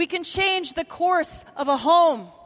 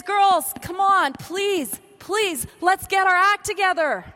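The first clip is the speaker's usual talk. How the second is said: pleading prophet; 3 semitones higher, slower than usual. Retold or imitated. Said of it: "and says".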